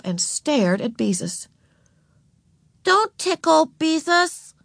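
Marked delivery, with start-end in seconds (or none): 2.8-4.5 put-on high little-girl plea; begging. A narrator's reading. Ramona begs her sister for mercy, pleading. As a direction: plead to be spared. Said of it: "she begged".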